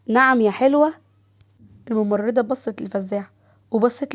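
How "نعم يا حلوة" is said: louder, higher, affronted retort; indignant challenge. A narrator's reading. Jealous Shams challenging the flirting nurse, indignant. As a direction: cut in, jealous and confrontational.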